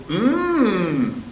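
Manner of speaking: slow, relishing hum; savoring. Acted. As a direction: savor every word. Jolie tastes her finger.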